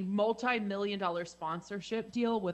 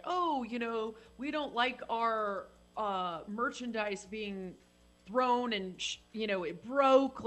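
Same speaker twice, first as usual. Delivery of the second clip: obnoxious executive voice; slower than usual. Retold or imitated. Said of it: "this obnoxious executive voice thing".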